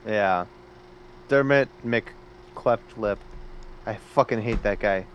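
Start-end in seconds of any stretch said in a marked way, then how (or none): 1.3-3.2 mocking. Real, not acted. Mocking name twist.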